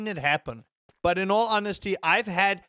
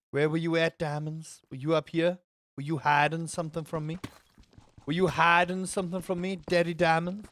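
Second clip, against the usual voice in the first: exaggerated American accent. Streamer questioning hidden diamonds, exaggerated American Southern accent. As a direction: coax in a put-on Southern accent. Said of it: "this is the most offensive accent I have ever done".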